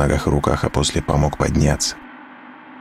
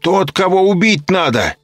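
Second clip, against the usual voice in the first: high, loud zealous demand; fierce older woman; 11 semitones higher, 4 dB louder than usual. A narrator's reading. Serafima insists they behead him, fervent. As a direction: insist he must die.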